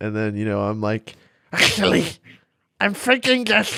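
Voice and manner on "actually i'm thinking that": odd, very high-pitched space-alien musing voice. Answering the first impression as another philosopher: Slavoj Žižek impression. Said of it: "just Slavoj Žižek, dude".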